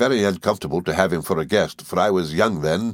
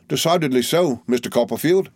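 higher, oily, cringing humble voice; fawning Uriah; 6 semitones higher than usual. A narrator's reading. To Copperfield, as fawning Uriah with oily humility. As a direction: grovel and simper through every word.

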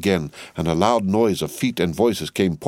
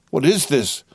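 higher-pitched startled question; bewildered, raised-pitch exclamation; breathless and confused; 7 semitones higher than usual. A narrator's reading. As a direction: cry out in confused alarm. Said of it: "breathless and confused".

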